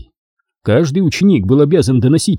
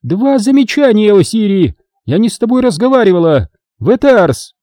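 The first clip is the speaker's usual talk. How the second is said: angry snapping; 10 semitones higher than usual. A narrator's reading. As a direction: cut her off angrily. Obin punishing and snapping.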